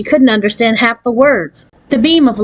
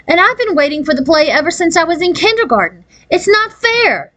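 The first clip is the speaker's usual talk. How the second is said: rising into a high squeak, slowing at the end; squeaky; 9 semitones higher than usual. A narrator's reading. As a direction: voice cracks upward on not fair. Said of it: "Her last words came out with a squeak".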